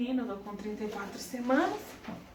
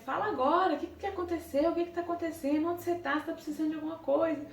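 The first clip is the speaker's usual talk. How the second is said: higher, rushed questions in a panic; desperate husband; 5 semitones higher, faster than usual. Retold or imitated. Husband on the phone panicking over news, high anxious rush. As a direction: fire off worried questions, hurrying. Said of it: "ficou desesperado".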